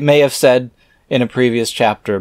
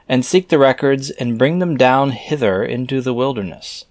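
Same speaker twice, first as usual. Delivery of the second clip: scripture reading; 3 semitones higher than usual. Acted. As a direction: intone the archaic words like a preacher. Reads scripture aloud.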